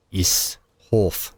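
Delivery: put-on a clumsy South African accent on the vowels; a self-mocking stab at a South African accent; bad South African accent. Gamer jokes to his town in a South African accent. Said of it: "my South African accent's quite bad".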